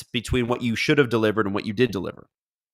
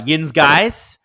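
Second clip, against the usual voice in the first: Yinzer accent demo, drawn out; light Yinzer accent, louder and slow; Pittsburgh accent; 4 semitones higher, 5 dB louder than usual. Shown as a demonstration. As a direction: show off Pittsburgh "Yins guys" slowly. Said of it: "a little bit of the Yinzer accent".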